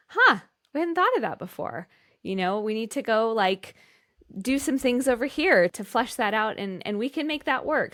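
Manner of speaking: mock delighted brainstorming; playing the team, thrilled and loud; excited reply. Acting out the team's excited reply.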